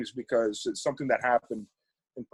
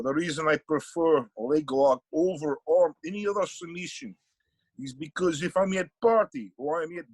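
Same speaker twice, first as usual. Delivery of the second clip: bad Russian accent; 3 semitones higher than usual. Sambo teacher explaining leg locks at a seminar, bad Russian accent. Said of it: "that's a bad Russian accent".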